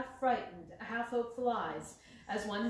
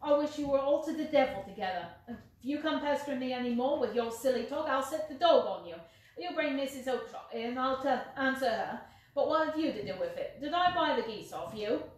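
angry shouting; 3 semitones higher, 6 dB louder than usual. Acted. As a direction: chase the pest off with threats. Salesman shaking fist at man.

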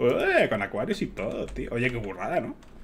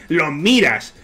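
exasperated; 2 semitones higher, 5 dB louder than usual. Real, not acted. Ranting about emote review.

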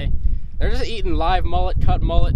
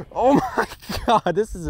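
amazed; 7 semitones higher than usual. Real, not acted. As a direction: draw it out high in real amazement. Amazed at another big fish.

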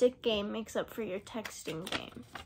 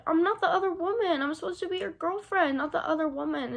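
raised, louder hurt insistence; upset protest; 5 semitones higher, 3 dB louder than usual. Retold or imitated. She retells telling her boyfriend she's not the other woman, upset and raised. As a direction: push back like you're fed up being second. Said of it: "and I'm like".

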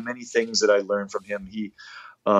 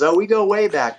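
imitating a singer; 11 semitones higher than usual. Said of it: "And he goes".

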